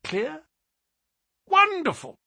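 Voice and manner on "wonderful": very high, loud exclamation of wonder; admiring cry. A narrator's reading. Colonel marvels at Holmes's clear account, high amazed cry. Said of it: "cried the Colonel".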